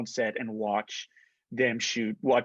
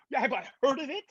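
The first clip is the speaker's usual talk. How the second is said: high, incredulous retold echo; 12 semitones higher, faster than usual. Star Wars fan answering director friend, incredulous. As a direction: throw the question back in disbelief.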